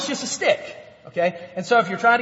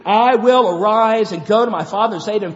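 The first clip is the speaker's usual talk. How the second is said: louder, stress on will; proclaimed loudly; 7 dB louder than usual. Shown as a demonstration. Preacher reading the son's resolve, loud and firm. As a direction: ring it out as a vow. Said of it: "Here's the action".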